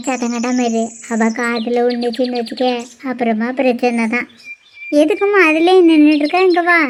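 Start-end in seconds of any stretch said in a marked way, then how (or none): 0.1-4.3 softer, lower, keep it between us; hushed warning. Acted. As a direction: lean in and warn her under your breath. Hushing her sister so she won't hear.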